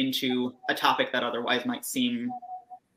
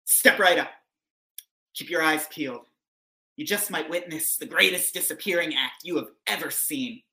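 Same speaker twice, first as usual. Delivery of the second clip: loud carnival barker; 3 semitones higher, faster than usual. Acted. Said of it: "freak show".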